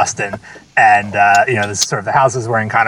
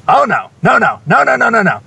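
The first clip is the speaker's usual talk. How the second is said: imitating an older woman's high, wailing "no, no, no"; dismayed older woman; 11 semitones higher, 4 dB louder than usual. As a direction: pitch way up and moan the refusals like a flustered grandmother. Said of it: "and then she goes".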